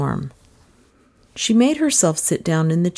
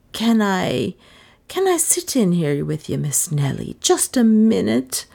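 plaintive; 3 semitones higher than usual. Acted. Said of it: "Lizzie's voice was plaintive".

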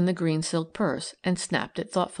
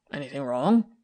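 irritable; 4 semitones lower, 4 dB louder than usual. A narrator's reading. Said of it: "demanded Corbin irritably".

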